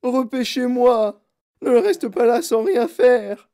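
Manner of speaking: aigu et fort, lent, paniqué; crié. Acted. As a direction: crier à son mari, lentement. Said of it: "cria madame Gloop". (Mme Gloop crie à son mari, aigu et lent)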